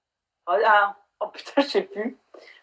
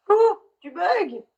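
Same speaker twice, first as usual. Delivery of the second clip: calling out slowly and higher to a frozen video guest; slow, higher drawn-out call across the line; 10 semitones higher, much slower than usual. Real, not acted. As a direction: stretch the name out, trying to get her attention.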